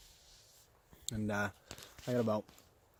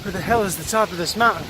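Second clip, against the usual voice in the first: frustrated shout; 4 semitones higher, 5 dB louder than usual. Real, not acted. Exasperated near the top.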